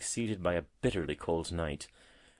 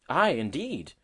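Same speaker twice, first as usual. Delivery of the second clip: higher, emphatic agreement; earnest cry; 6 semitones higher, 5 dB louder, slower than usual. A narrator's reading. Robin agreeing with the woodlark, earnest cry. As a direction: agree earnestly, lifting the pitch. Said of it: "cried the robin earnestly".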